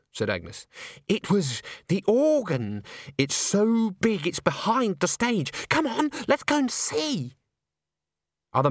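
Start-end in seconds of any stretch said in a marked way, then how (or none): 1.1-7.3 high, drawn-out eager excitement; gushing Christine. Acted. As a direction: climb higher as the eagerness builds.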